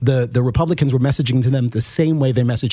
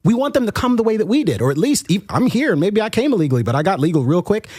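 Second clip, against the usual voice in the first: higher, hammed-up preachy politician voice; mock Democrat pitch; 5 semitones higher than usual. Mocking Democrats talking down to Latino voters, higher preachy voice. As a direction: lampoon a condescending campaign pitch.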